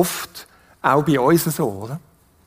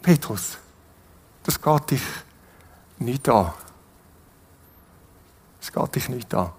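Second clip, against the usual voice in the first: quiet; 8 semitones lower, 7 dB quieter than usual. Acted. Jesus gently rebukes Peter.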